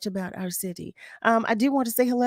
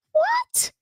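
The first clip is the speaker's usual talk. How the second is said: surprised. Real, not acted. Host amazed by the news.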